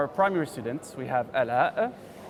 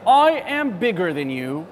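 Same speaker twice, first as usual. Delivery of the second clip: a touch of a bossy bear, louder; annoyed bear; 5 dB louder than usual. Acted. Teacher reading the bear bullying the bee, mildly annoyed. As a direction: puff up and boast at the bee. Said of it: "Mister Bear is annoyed".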